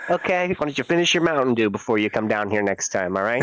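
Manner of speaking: put-on jokey dad talking down to his kid; lightly voiced cool dad ribbing his son; mock dad. Dad teasing his son about screen time, mock stern.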